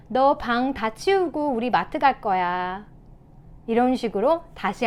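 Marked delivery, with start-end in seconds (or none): 0.1-2.8 slow, unpressured statement; calm parent. Shown as a demonstration. Parent before going out shopping, calm demonstration. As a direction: model patiently setting out the plan. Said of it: "대신에".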